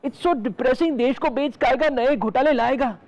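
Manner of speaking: declaimed lines, chanted refrain; mock poem recital. Finishing the satirical poem for the host, mock solemn. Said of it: "एक कविता पेश करने जा रहा हूँ".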